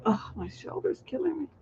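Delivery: whispered, voice dropped away; pained whisper aside. Real, not acted. Host whispering to herself about her aching shoulder. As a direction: mutter the pain under your breath.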